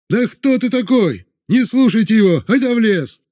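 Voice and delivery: rile up the crowd against him; defiant shout. A narrator's reading. Troublemaker defying the chekist, defiant yell. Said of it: "вновь закричал какой-то смутьян".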